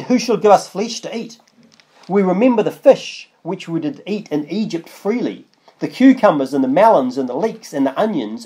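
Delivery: measured Bible reading; scripture reading. Acted. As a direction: read the verse out with weight. Reads scripture aloud.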